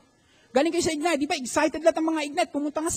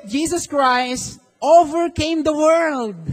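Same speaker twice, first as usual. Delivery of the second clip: louder, slow proclamation; loud declaration; 5 dB louder, slower than usual. Shown as a demonstration. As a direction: declare it boldly to the church. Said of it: "Declare it".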